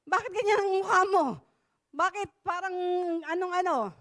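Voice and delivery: a hint of a scolding king, quick; mock-kingly scolding. Preacher imitating a king scolding a sulking youth, quick and lightly mocking. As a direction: tease like a king asking why the face. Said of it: "Parang yung hari".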